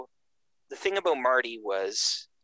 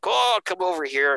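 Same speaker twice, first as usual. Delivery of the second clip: raised, higher-pitched imitation of a bellow; mock bellow; 8 semitones higher, 4 dB louder than usual. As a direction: imitate a big voice calling someone over. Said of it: "big bellowing voice".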